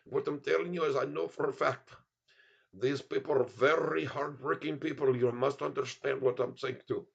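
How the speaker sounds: insistent put-on Indian accent. Streamer vouches for hardworking people, put-on Indian accent. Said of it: "India accent is, is tough to do".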